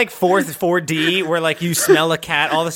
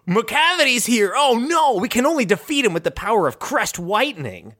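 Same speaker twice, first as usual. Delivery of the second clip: higher toothpaste ad announcer voice; over-the-top ad read; commercial voice; 4 semitones higher than usual. Pretend. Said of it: "toothpaste commercial where it's like".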